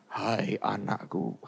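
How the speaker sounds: low, slow, hushed mock-divine voice; imagined voice of God. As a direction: imitate God calling softly and slowly from afar. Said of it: "anak-anak yang kerungon-kerungonan". (menirukan suara Tuhan, pelan dan rendah)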